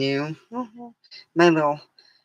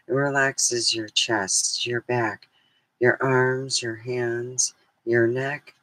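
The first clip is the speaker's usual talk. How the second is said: guided meditation; 3 semitones lower than usual. Acted. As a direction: guide the listeners into calm.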